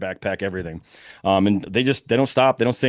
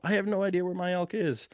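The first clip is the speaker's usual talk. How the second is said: yelling; 8 semitones higher, 6 dB quieter than usual. Retold or imitated. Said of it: "I hear him yell".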